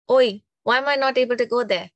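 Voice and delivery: fast, put-out holler, acting someone out; retold indignant shout. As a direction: call out a mock-indignant demand. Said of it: "He shouted at Nandi".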